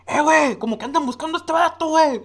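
high, loud retold yell; replaying the yell at full volume; shouting. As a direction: shout it like across the rooftops. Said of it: "pero gritando".

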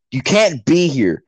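slow, drawn-out retold order; mock scolding neighbour. Neighbours ordering teens off road, mock stern. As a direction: imitate a stern complaint.

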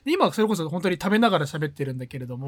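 talking while chewing cookies; mouth full. Real, not acted. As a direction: speak through a mouthful of snack.

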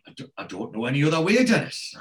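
butter-wouldn't-melt innocent protest, quickly said; mock innocence. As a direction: play the innocent, lifting towards the name. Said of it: "as if butter wouldn't melt in his mouth".

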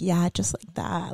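soft, slow bedroom murmur; hushed, slow encouragement to a lover; low, nice voice. Shown as a demonstration. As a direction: draw it out softly, approving. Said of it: "in, like, a low voice".

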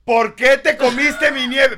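high, loud, slow sweet-then-accusing wife voice; wife walks in on husband, mock sugary high voice; imitating wife. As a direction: mimic the wife's syrupy greeting turning to accusation. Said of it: "entra mi mujer al cuarto".

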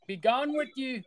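high, sneering villain; evil emperor voice. Retold or imitated. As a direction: sneer down at your enemy. Emperor dismisses Ben.

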